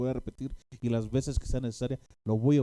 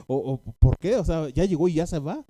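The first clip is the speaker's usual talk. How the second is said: pleading with the Lord; 3 semitones higher, 6 dB louder than usual. Retold or imitated. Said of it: "me estaba diciendo a mí".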